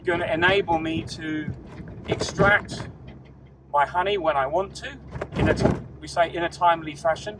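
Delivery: talking while driving over bumps; on a bumpy road. Real, not acted. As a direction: voice jolted by bumps. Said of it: "excuse the bumps".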